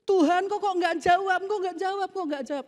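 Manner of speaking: high-pitched, repetitive pleading; mock whining complaint. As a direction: imitate a believer nagging God for answers. Believer complaining that God stays silent. (merengek mengeluh, nada tinggi)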